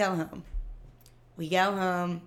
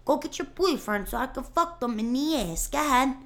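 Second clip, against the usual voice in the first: mock yell; 6 semitones higher than usual. Friend reimitating the guy.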